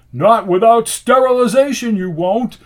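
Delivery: high, loud forceful objection; angry shout. A narrator's reading. Rasputin forbids probing the wound, shouting. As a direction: shout him down. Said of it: "shouted Rasputin".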